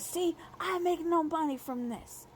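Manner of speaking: high, slow put-on baby whine; mock his childish complaint; imitating a pouty baby voice; fake baby voice. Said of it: "he's putting on a tone".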